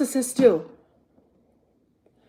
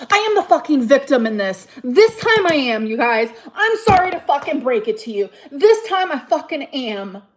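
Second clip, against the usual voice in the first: louder, pressing each word; loud insistence; 5 dB louder than usual. Real, not acted. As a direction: insist you're the victim. Insisting loudly to viewers.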